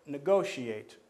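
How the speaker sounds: "negotiate" stressed on GO; slow "negotiate", leaning on GO; stress on second syllable. Shown as a demonstration. Teacher giving a stress example, leaning on GO in "negotiate". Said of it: "and there's the stress".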